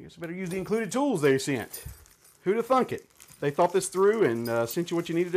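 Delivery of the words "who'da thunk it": high mock amazement on Who'da thunk it; over-the-top fake astonishment; sarcastic mock surprise. Real, not acted. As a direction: play it up like it's a shocking discovery. Tools were included after all.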